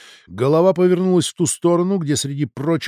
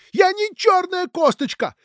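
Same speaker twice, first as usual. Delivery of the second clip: furious shout; 4 dB louder than usual. Acted. Son shouting at father.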